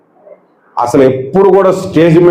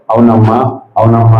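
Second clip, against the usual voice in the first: flat, lower, listless yes; mildly dull reply to a caller; 5 semitones lower than usual. Retold or imitated. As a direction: answer half-heartedly, low and dull. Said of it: "డల్గా మాట్లాడుతున్నాను".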